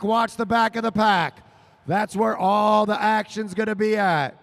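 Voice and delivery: play-by-play calling the pack; race call. Real, not acted. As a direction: point the crowd to the action.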